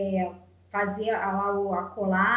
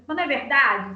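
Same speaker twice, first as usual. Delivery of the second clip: a brusquer, louder push on the question; harsher tone; 5 dB louder than usual. Shown as a demonstration. Mother showing how her child reads a harsher tone, brusque. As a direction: put a stern edge on it. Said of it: "num tom mais assim, mais ríspido".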